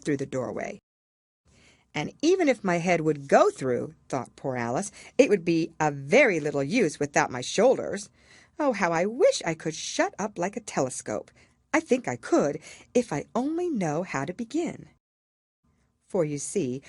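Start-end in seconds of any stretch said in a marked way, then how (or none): 1.9-3.9 put-on a little girl's voice, a touch louder, thinking aloud; lightly voiced young girl musing; Alice's voice. Alice muses to herself, lightly voiced girl. 5.2-14.9 put-on a young girl's hopeful wish, rising in pitch; Alice's voice. Alice wishes she could shut up like a telescope, eager girlish voice.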